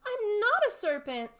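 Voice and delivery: high, loud indignant protest. A narrator's reading. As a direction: stress on not. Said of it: "said Alice indignantly".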